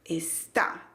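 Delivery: "Está" split, ending on a stressed TÁ; stress on last syllable. Shown as a demonstration. Teacher showing where the accent falls, stress on TÁ. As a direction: separate "Es" and "tá", landing on TÁ. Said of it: "Tiene el acento en la última sílaba".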